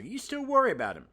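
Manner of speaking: high, loud comic-book exclamation; hammed-up cry; exclaiming. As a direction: read the line with its exclamation point. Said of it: "Exclamation point".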